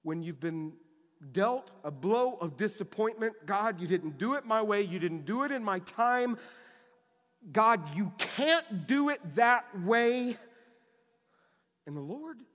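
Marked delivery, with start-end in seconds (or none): 3.5-10.4 frustrated complaint to God. Acted. Quoting a disappointed complaint to God.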